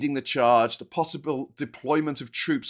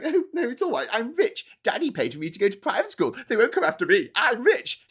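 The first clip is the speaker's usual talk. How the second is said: high, smug mock rich kid; pitched-up posh sneer; 5 semitones higher than usual. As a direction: play the spoilt private-school boy. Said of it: "he's sitting there going".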